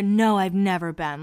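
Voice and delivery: mildly annoyed, let-down retelling; lightly imitated sullen denial; angry and bummed. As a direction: imitate someone irritated and a bit bummed. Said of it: "angry and, like, bummed".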